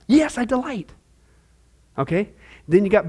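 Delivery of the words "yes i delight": glad affirmation. Shown as a demonstration.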